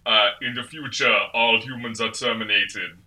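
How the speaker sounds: poorly faked Austrian accent; weak Terminator-style Austrian accent; bad Arnold Schwarzenegger. Podcaster imitating a bad Terminator impersonator, mock Austrian accent. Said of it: "it sounds exactly like that 'cause it's not a good impression".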